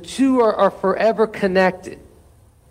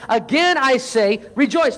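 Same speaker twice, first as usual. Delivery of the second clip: "again" slow and higher, then a firm "rejoice"; underlining the words; 5 semitones higher than usual. Retold or imitated. Preacher repeating Paul in case they missed it, emphatic. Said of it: "he's, he's underlining this".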